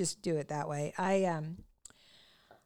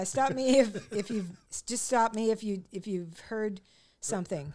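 halting restarts, groping for the title; imitating a fumbled introduction. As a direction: mimic an emcee losing the words. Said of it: "he introduced me and he goes".

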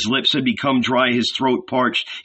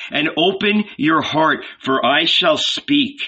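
higher, measured proclamation; solemn summons; 5 semitones higher than usual. A narrator's reading. Jesus readies Ananias to hear his parable, solemn. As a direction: announce that a teaching is coming.

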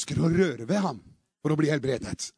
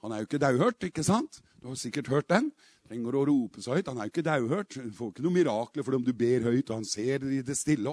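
lower-pitched mild scolding; imitated hushing objectors; 6 semitones lower than usual. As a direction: talk them down in a low voice. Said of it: "prøvde å få de til å ikke rope så høyt".

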